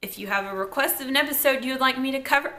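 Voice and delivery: lightly done radio announcer read. Real, not acted. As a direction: read it like a quick radio spot. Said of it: "I sound like a radio announcer".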